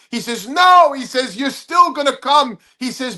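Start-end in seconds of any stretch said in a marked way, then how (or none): 0.5-2.6 emphatic denial. Retold or imitated. Mentor corrects confused comic, emphatic mock objection. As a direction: burst out with it, pitched way up.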